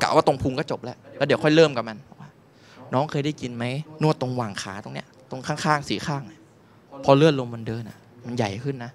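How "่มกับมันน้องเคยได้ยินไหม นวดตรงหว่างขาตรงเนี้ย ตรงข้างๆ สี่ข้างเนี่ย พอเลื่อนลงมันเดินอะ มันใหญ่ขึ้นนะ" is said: sly masseuse. Retold or imitated. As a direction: lower it slyly.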